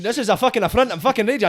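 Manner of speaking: high-pitched mock outrage; mock raging. Farmer affronted by the accent, mock raging. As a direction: play an affronted farmer, lightly hammed-up. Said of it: "Just all sorts of farmers raging".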